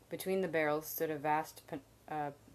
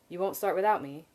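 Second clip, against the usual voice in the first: louder, pleading worried question; anxious; 3 semitones higher, 8 dB louder than usual. A narrator's reading. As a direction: fret that they'll go on without you. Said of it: "he asked anxiously".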